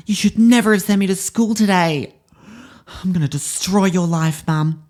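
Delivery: put-on high, shrill child screaming at mum; furious girl tantrum. Shown as a demonstration. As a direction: throw a tantrum at your mum. Acted tantrum of eight-year-old girl.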